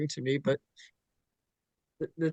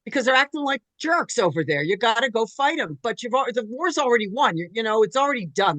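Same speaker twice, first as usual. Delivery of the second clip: insistent Krishna; 5 semitones higher, 4 dB louder than usual. Retold or imitated. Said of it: "and Krishna says".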